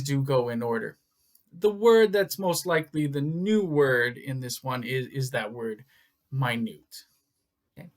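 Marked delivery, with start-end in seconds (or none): 6.3-7.0 "minute" said as my-NOOT; careful pronunciation. Shown as a demonstration. Teacher introducing the new word to students, careful pronunciation. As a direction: say "minute" as my-NOOT, the adjective for tiny. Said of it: "pay attention to the pronunciation".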